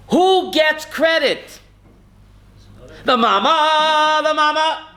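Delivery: choked with emotion. Real, not acted. Rabbi overcome while honoring a mother's tears, emotional and slow. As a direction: let the emotion rise as you repeat it. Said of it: "If I get emotional".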